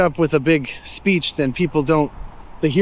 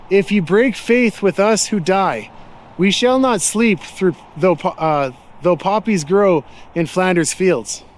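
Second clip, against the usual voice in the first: slow, measured recital of a war poem; verse recitation; slower than usual. Acted. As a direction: recite the memorial verse slowly, line by line.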